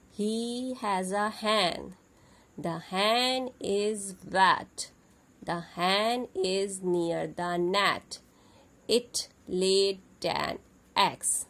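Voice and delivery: put-on slow, clear sentence reading for kids; slow model reading. Shown as a demonstration. Teacher reading the sentences aloud for kids to copy. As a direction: read each sentence like a model for children.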